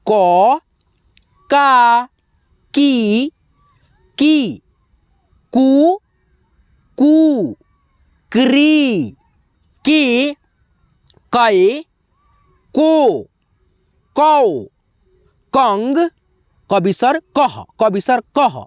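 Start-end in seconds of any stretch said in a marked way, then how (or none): 0.1-16.0 each form from "क" to "कंग" held long and higher, by itself; barakhadi drill. Shown as a demonstration. Teacher reciting for students to learn, drawn-out "क" to "कंग". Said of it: "अब सीखो यहाँ पे". 17.4-18.6 "कह" ending in a short breath of ह; visarga as "ह". Shown as a demonstration. Teacher reminding students of the visarga, h-ending "कह". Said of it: "दो विसर्ग का उच्चारण".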